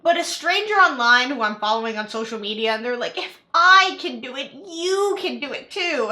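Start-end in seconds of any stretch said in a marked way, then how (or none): 3.2-6.1 mock influencer voice. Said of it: "I don't know why I'm doing this voice".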